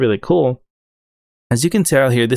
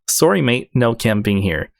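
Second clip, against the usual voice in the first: put-on Australian accent. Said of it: "my Australian accent isn't that great".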